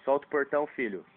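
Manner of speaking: firmer and firmer. Real, not acted. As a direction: repeat it, each time firmer. Repeated command to child, rising. (mandando soltar o portão, cada vez mais firme)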